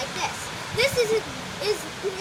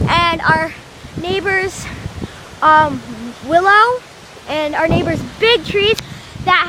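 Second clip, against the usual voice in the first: shouting over wind; 6 dB louder than usual. Real, not acted. Filming outside in strong wind.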